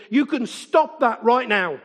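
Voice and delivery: retold stern order, slowed for weight; mock-heroic scolding, each word measured out; indignant telling-off. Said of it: "in a fit of danger".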